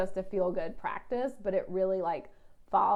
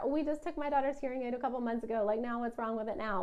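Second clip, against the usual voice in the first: whiny voice; 4 semitones higher, faster than usual. Pretend. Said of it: "you love my whiny voice".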